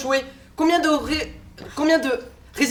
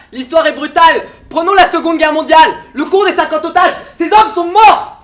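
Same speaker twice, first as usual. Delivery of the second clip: raised, louder voice building to a hard peak; heated argument; 3 semitones higher, 5 dB louder than usual. Acted. Sceptic confronts partners with history, in a heated voice. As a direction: drive the point home, slowing on the last words.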